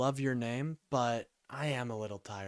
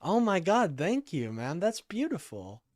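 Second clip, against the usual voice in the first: excited praise; 4 semitones higher, 4 dB louder than usual. Real, not acted. Praising mod Bill's message.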